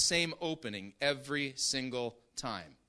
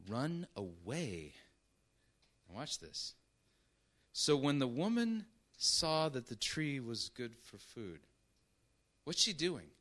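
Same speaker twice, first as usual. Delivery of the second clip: ordinary delivery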